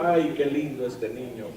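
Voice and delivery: lightly voiced mom cooing at her newborn; imitating mother. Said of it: "Mi mamá cuando me vio nacer dijo".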